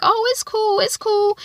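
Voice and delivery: very high, airy dismissal; breezy friends. Retold or imitated. Girlfriends wave off the gay question, mock breezy. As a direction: brush it off lightly.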